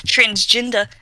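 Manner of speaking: Transgender with a Kiwi vowel; New Zealand accent. Shown as a demonstration. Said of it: "That's me saying that in a New Zealand accent".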